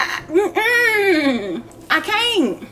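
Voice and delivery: breaking into a half laugh, half cry; can't get the words out for laughing; giggly, choked-up voice; laughing helplessly. Real, not acted. Overwhelmed laughing at absurd weather.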